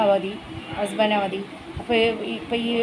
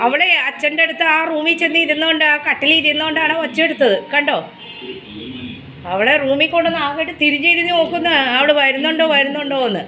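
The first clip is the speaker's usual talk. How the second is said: higher, louder fond telling; doting pet talk; 4 semitones higher, 3 dB louder than usual. Real, not acted. Mother telling the pet's antics, doting. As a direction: recount it fondly to the pet. Keeps doting voice while recounting.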